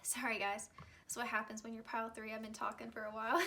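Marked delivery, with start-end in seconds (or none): 0.0-0.7 just after a sip of tea; sipping hot tea. Real, not acted. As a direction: talk right after swallowing tea. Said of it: "let me take a sip of my tea".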